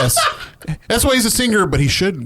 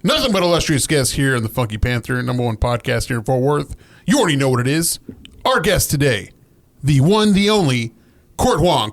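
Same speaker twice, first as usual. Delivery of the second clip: show announcer intro; 2 semitones higher than usual. Pretend. Host does his signature podcast opening, hyped announcer delivery. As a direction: announce the guest like a hype man. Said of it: "go ahead and say your thing".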